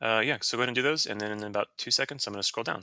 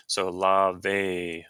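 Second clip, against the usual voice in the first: lavémonos, stress on MO-less, stress held on "lavé"; 3 dB louder, slower than usual. Shown as a demonstration. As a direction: lean on the "vé" of "lavémonos". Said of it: "that's where the stress in that word falls".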